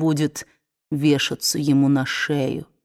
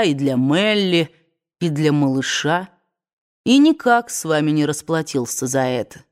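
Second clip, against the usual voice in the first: proud weary man. Acted. Ashley refusing.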